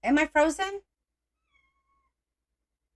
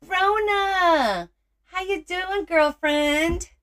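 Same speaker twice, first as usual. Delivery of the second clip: a light, admittedly bad Irish accent, much higher; lightly voiced Irish woman greeting, higher; 11 semitones higher, 4 dB louder, much slower than usual. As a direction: greet a friend in a hammed-up Irish lilt. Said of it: "It's my Irish woman".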